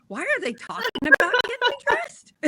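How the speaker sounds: 高く裏返った夢うつつの声で; high, drifting, baffled inner voice; dazed inner voice. Retold or imitated. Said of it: "And I am just like".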